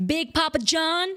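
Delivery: dramatic villain threat. Acted. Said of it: "And now you can clip it".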